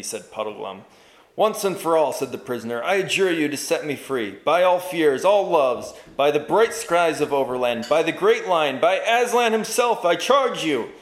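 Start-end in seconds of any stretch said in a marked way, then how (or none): 1.4-10.9 loud, higher, peaking at by Aslan himself; solemn adjuring. Acted. Prisoner invoking Aslan's name, loud and solemn. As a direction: invoke every oath you have.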